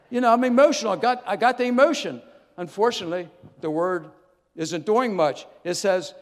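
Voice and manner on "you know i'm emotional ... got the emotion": emotional. Real, not acted. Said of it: "I'm emotional about this".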